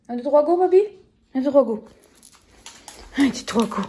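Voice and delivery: loud, upbeat counting for the dog; talking to a dog. Real, not acted. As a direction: cheer the dog on to jump.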